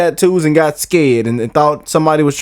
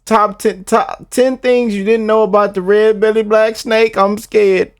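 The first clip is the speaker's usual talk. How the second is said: normal talking voice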